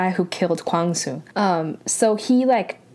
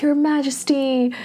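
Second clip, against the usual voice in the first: retold yell; 5 semitones higher than usual. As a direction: imitate a man calling out, held back. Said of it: "he yells".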